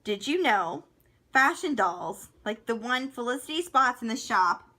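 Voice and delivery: lively fact-reading voice; reading aloud. Acted. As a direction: read it out like a fun fact.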